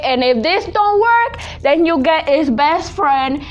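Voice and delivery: high, loud, emphatic mother; imitating mom. Impersonating her mom recommending Alcolado, high and loud. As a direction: sell the second remedy with mom's zeal.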